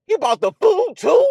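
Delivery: mock surprise. Mock astonishment.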